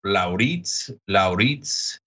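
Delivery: low voice with Norwegian-style names; low, put-on Norwegian character voice; Vidar. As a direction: imitate a TV character calling out a name, pitched low. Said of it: "one scene where Vidar".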